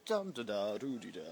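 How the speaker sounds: playful dum-da-da filler noises; nonsense sing-song. Shown as a demonstration. Mimes muddled state with nonsense syllables.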